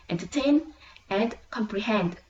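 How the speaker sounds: "entertain and comprehend" with TAIN and HEND strongest; final-syllable stress. Shown as a demonstration. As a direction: main stress ending both "entertain" and "comprehend". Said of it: "it will receive primary stress".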